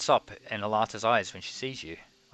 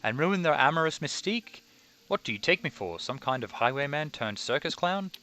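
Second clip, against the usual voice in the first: indignant jester; 3 semitones higher than usual. Acted. Harlequin's reply.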